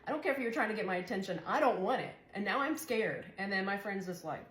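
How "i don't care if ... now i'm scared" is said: retold indignant outburst, pitched up; worked-up, high-pitched objection; upset protest. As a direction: replay telling someone off, high and agitated. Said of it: "I got upset".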